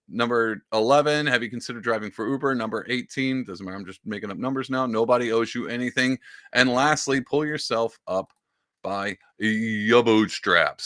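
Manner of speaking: mock preachy ending; sarcastic reading. Shown as a demonstration. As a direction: drag out the bootstraps line. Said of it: "put emphasis".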